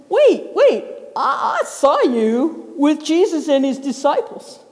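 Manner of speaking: a light, high-pitched accusing voice; accusing bystander. Acted. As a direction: catch him out.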